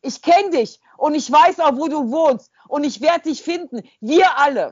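high, loud, menacing rant; a deranged stranger threatening to find her; unhinged threat. Retold or imitated. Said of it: "Und, äh".

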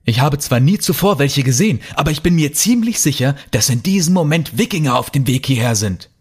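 panicked insistence. Acted. Panicked Peter insists on what he saw.

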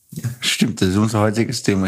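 talking around a pencil in the mouth. Real, not acted. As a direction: speak with a pencil between your teeth. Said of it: "Ich hab einen Bleistift in den Mund genommen".

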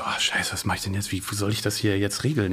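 hushed, panicked aside to himself; whispered panic. Retold or imitated. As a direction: breathe out the panic under your breath. Retelling his own panic at night.

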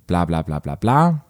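skim over it with light mockery; dismissive filler. Reader skipping part of the story, lightly dismissive. Skips text with mocking filler.

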